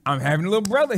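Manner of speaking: imitating an excited little boy, rising at the end; retold childlike excitement with an upward lilt; excited child. Little boy telling everyone about the coming baby, excited. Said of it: "He was excited".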